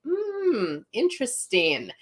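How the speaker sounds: high drawn-out hmm, then settle down; retold intrigued musing. Answering the friend who explained angels, intrigued musing. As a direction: mull it over in mock wonder. Retells her intrigued reaction.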